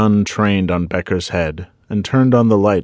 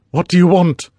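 high, loud, panicked plea; frightened victim begs the intruder; frantic; 11 semitones higher, 5 dB louder than usual. A narrator's reading. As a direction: blurt it out in terror. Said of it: "asked Alan frantically".

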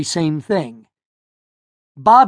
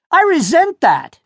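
high, prim "I resent that"; stiff, old-fashioned protest; a boy sounding like his grandfather; indignant objection; 11 semitones higher, 4 dB louder than usual. A narrator's reading.

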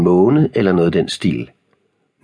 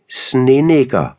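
higher, mildly raised taunt; jeering shout; 7 semitones higher than usual. A narrator's reading. Tobias taunting Noah across the car park, jeering shout. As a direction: call the insult out in mockery. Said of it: "midt i latteranfaldet råbte han".

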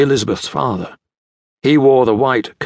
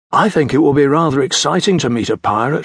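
dreamily; 3 semitones higher than usual. Acted. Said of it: "she said dreamily".

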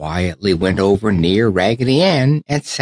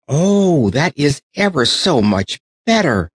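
higher, happy relief; relieved cry; 6 semitones higher than usual. Acted. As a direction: sigh of relief made bright. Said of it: "cried Raggedy Ann".

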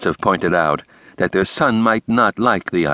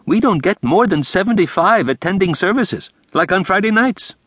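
higher, fussy theatrical principal; the speaker's voice; 8 semitones higher than usual. A narrator's reading. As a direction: lay it out with flair. The speaker explaining congregation.

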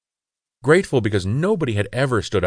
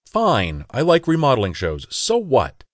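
defensive retort, pitched higher; 6 semitones higher than usual. Acted. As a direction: snap back, caught out and defensive. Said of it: "I said defensively".

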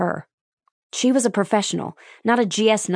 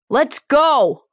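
high, loud command; yelled; 8 semitones higher, 6 dB louder than usual. Acted. Lieutenant yelling at the staff to move. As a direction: bark the order to move out. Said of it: "Lieutenant Lopez yelled".

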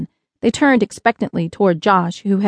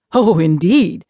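delighted, emphatic agreement; mild excitement; 3 dB louder, slower than usual. A narrator's reading. Visitor admiring the boy's name, mildly excited. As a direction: agree with a pleased little burst. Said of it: "clapped his hands in excitement".

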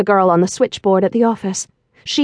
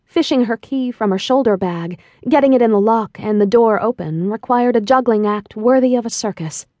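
usual speaking voice

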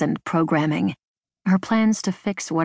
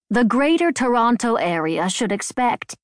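reading aloud; 5 semitones higher than usual. A narrator's reading. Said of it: "She was reading".

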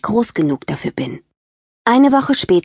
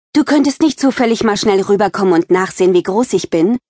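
sweet ask; 3 semitones higher than usual. Acted. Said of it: "fragte ich total nett".

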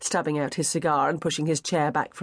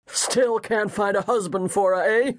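teasing bluff guest; 3 semitones higher than usual. Acted. Red-faced guest ribbing his host.

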